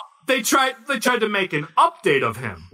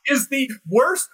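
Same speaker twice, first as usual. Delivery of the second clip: shouting, pitched high; loud sharp voice; 4 semitones higher than usual. Real, not acted. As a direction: rant with disbelief. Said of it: "Why are you yelling at us?".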